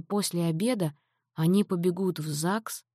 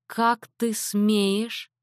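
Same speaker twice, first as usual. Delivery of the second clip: very slow, higher, through clenched teeth; through gritted teeth; 4 semitones higher, much slower than usual. Acted. Mother to father after the slur, through gritted teeth. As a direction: drag out each word through gritted teeth. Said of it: "сквозь зубы процедила мама".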